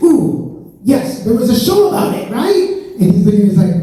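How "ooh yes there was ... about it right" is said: high, eager guess; excited recall. Retold or imitated. Comic telling the examiner about a TV show, higher. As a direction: grab at the memory eagerly. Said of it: "I'm like".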